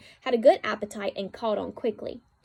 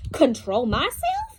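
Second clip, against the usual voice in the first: yelled; 3 semitones higher, 7 dB louder, slower than usual. A narrator's reading. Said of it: "yelled Fern".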